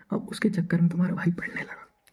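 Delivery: whispered, secretive aside. Real, not acted. Narrator whispering to viewers about studying for the girl, hushed. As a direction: let them in on a secret.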